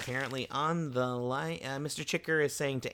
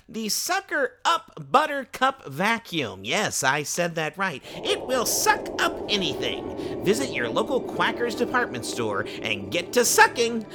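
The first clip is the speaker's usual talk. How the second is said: upbeat sponsor pitch; ad read. Acted. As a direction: sell it like a radio ad. Reads sponsor ad.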